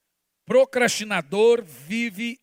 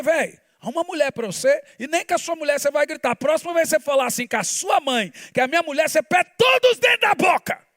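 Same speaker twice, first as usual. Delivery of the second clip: stern warning to Jean; 5 semitones higher, faster than usual. Retold or imitated. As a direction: warn him off, getting fiercer. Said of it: "Eu falei". (pai ameaçando o filho, cada vez mais bravo)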